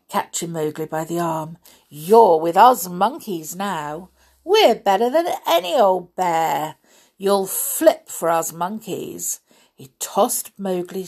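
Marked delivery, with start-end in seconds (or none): 1.9-9.4 boastful monkey. Acted.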